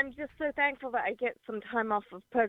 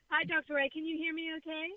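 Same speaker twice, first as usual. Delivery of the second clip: distant, faint phone voice; faint on the line; 5 semitones higher, 8 dB quieter than usual. Real, not acted. Caller greeting radio doctor from her car, faint. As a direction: sound faint, fading away on a weak connection. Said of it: "You're a little faint".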